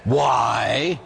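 snapped challenging why; sharp why. Retold or imitated. Priest challenging himself in a retold dialogue. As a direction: bark the why at them.

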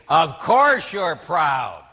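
slow, loud, insistent; drawn out and hammered home; emphatic retort. Retold or imitated. Priest to penitent denying pride, slow loud insistence.

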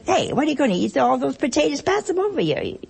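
high, laughing mock scolding; mock Italian table banter. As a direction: rib someone over the potatoes. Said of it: "somebody would say".

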